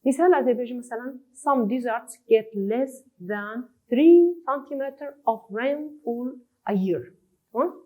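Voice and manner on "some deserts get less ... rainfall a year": words spaced out slowly; teacher reading an example line slowly. Shown as a demonstration. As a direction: read it slowly, as dictation for the class.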